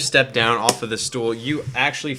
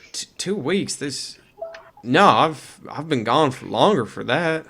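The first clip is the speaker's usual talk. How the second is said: stammering, slightly raised disbelief; confused, halting protest; puzzled; 3 semitones higher than usual. Acted. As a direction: question it, then correct haltingly. NPC puzzled at time missing.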